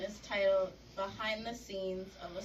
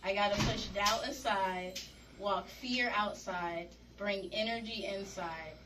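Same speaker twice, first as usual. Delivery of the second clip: rhythmic rhyming spoken-word delivery; poetry reading. Acted. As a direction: punch each line's opening, settle on the rhyme. Reads rhyming poem aloud.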